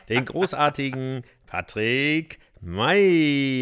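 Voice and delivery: slow, grand ring announcer build-up; brash fight promoter hype. Acted. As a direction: stretch it out and boom the name. Co-host introduces host in return.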